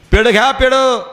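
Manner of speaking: lightly voiced street hawker calling out sweets. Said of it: "असं ओरडायचा".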